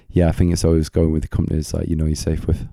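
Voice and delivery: slightly worn hoarse voice. Real, not acted. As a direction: voice going a little hoarse. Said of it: "I think my voice is going a little bit".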